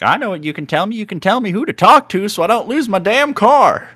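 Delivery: high, loud, pushy woman caller; demanding caller. Retold or imitated. Wrong-number caller demanding help, high and loud. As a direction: insist like a desperate caller who won't hang up. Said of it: "And then she's like".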